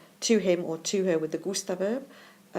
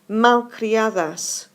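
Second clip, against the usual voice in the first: slow spelled-out word; 3 semitones higher, 8 dB louder, much slower than usual. Shown as a demonstration. Teacher models key word slowly.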